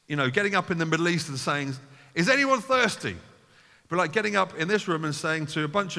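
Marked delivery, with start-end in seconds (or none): 2.1-3.2 much higher, louder rhetorical question; preacher imagines calling out to a crowd, hammed-up; mock public call. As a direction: call out to the room like a street announcer.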